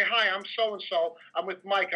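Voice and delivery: slow, polite introduction; a bouncer showing guests the polite way to introduce themselves, slow and courteous; nicely. Shown as a demonstration. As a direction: show the courteous way to ask, unhurried. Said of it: "You walk over to me nicely and say".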